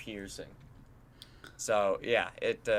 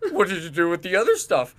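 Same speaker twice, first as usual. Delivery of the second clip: higher, louder mock-exasperated demand; upset friend; 7 semitones higher, 8 dB louder than usual. Friend confronting player who dropped everything, mock upset. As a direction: imitate a friend's upset disbelief. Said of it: "he sounded so upset".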